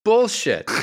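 high, slow mock outburst; student losing it in class, a slow high mock outburst; cracking in disbelief. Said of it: "he just cracked".

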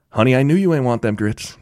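lightly imitating a Southern accent; teasing Southern twang, retold. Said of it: "in that southern accent".

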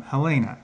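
Helena as huh-LAY-nuh, middle syllable stressed; huh-LAY-nuh pronunciation. Shown as a demonstration. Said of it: "find out the real one".

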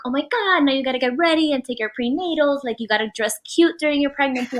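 gushing. Retold or imitated. Happy relatives fussing over the mom-to-be, gushing. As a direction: lightly imitate gushing well-wishers.

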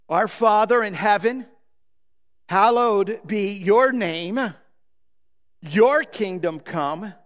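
reverent reading of scripture; prayer recitation. Acted.

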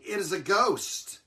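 mildly acted fright; mock frightened cry. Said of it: "they were frightened".

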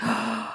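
soft mock gasp of shock; quiet sharp intake, acted; stunned gasp. Recapper voicing the captain's shock, stunned gasp.

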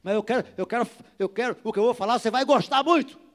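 loud, high, fast comeback; retold heated retort. Pastor confronting a man who refuses to talk, loud retort. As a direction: raise your voice and push back insistently. Acted confrontation with a hostile stranger.

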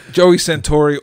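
name said through a big laugh; name cracking up mid-laugh. Real, not acted.

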